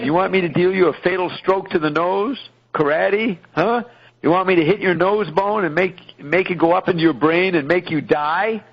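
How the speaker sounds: hammed-up interrogator bullying a beaten man; mock menacing threat. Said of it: "The Cecil agent's pissed off".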